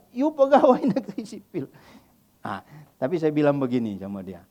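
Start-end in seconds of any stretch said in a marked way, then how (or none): 0.1-1.7 put-on Batak accent, high, breaking into a laugh; laughing Batak teasing. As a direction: laugh through the jab. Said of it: "Saya pakai logat, logat, logat Batak pula kan".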